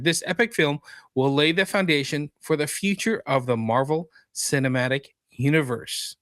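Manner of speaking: dramatic synopsis read with stressed key words; showy, emphatic promotional read; announcer read. Acted. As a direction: read it like a trailer announcer, settling at the end.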